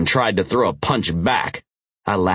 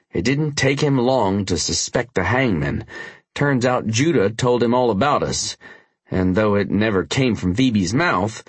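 urgent biker voice; 4 semitones higher than usual. Acted. Tanner's voice, explaining.

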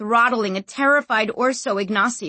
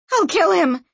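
high, loud murderous scream; screaming threat; 10 semitones higher, 6 dB louder than usual. A narrator's reading. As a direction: scream it in a rage. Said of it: "screamed Sanchia".

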